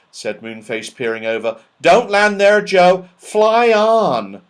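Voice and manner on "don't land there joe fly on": urgent call. Acted. Moonface urging Joe on.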